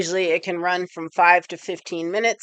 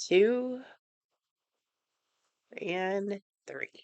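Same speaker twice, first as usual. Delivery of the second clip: breath count; 3 semitones higher, 8 dB quieter, much slower than usual. Shown as a demonstration. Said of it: "take those three breaths".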